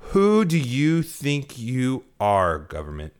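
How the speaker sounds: indignant challenge. Real, not acted. Rhetorical challenge to government.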